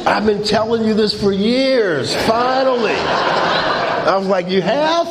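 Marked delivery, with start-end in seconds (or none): 0.1-2.9 mock tearful relief. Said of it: "she's crying". 4.5-5.1 high, rising, innocent question; mock surprise. Husband hearing his wife knew for years, mock surprise. Clueless reply to wife's news.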